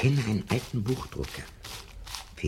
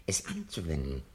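breathy, soft confiding whisper; 6 dB quieter than usual. Acted. Professor confides his secret invention to Montag, whispering. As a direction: let the secret slip out in a whisper.

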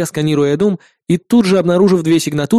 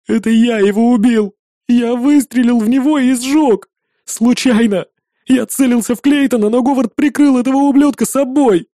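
high, loud sobbing admission; tearful confession; 7 semitones higher, 3 dB louder than usual. A narrator's reading. Boy confesses the killing in tears. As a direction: blurt the guilt through tears. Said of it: "жалобно всхлипнул".

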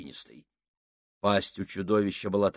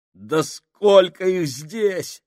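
slow, higher, louder desperate groan; 9 semitones higher, 7 dB louder, much slower than usual. Acted. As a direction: moan it out in dread. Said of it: "простонал Фабрини". (со стоном, в отчаянии)

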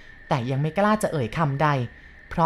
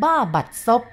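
a sudden angry blurt, higher and louder; blurted in annoyance; angry outburst; 6 semitones higher, 5 dB louder than usual. A narrator's reading. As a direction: spit the curse out in irritation. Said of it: "ผมโพล่งออกอย่างรู้สึกฉุนกึก".

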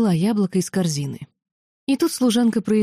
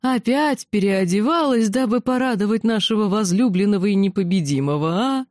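snide; 3 semitones higher than usual. Acted. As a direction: needle him with a sneer. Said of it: "А затем ехидная".

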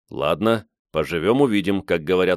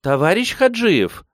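high, ringing appeal; high-pitched rallying call; 11 semitones higher, 3 dB louder than usual. A narrator's reading. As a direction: hail someone high over the crowd. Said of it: "взывает Катюша".

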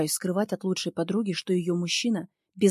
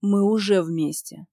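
отрезает; 6 dB louder, slower than usual. Acted. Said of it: "отрезает".

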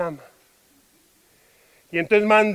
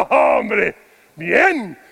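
cheerful fine. Shown as a demonstration. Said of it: "depende del tono".

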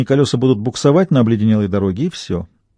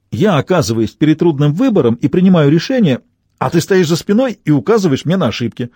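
exasperated quarrel, pitched up; heated argument; 3 semitones higher than usual. Acted. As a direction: argue it out with rising reproach. Acted quarrel between the friends.

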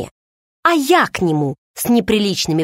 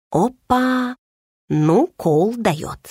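delighted; 3 semitones higher, much slower than usual. A narrator's reading. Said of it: "восхитилась я".

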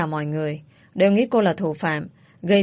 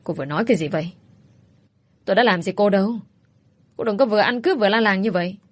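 angry; 3 semitones higher, faster than usual. Acted. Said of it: "Vi tức giận".

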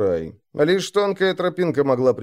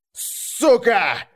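a much higher squeal of pain; shrieked curse; 9 semitones higher than usual. Acted. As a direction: yelp it as the bolt hits. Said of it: "взвизгнул второй крепыш". (взвизгнуть от боли, высоко)

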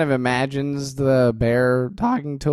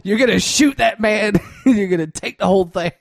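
bossy bear, near a shout; gruff bear voice; 7 semitones higher than usual. Pretend. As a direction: bark orders at the kid. Bear voiced ordering robbery.

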